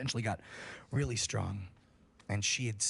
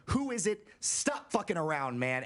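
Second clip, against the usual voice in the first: retold yell; 7 semitones higher than usual. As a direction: yell at the thing outside the door, scared. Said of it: "we keep yelling".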